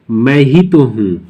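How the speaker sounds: मैं ही तो हूँ with weight on मैं ही; stress on मैं. Shown as a demonstration. Teacher shows emphatic मैं ही तो हूँ, stressing मैं. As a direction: lean on मैं ही तो हूँ, slowly. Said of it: "हम क्या जोर दे रहे हैं कि मैं".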